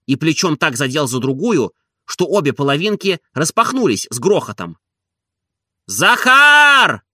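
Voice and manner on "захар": loud, much higher imperious call; commanding shout. A narrator's reading. Master summoning his servant, loud commanding shout. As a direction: bark the servant's name across the house. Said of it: "повелительно закричал Обломов".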